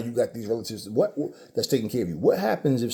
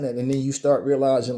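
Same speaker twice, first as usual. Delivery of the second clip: normal talking voice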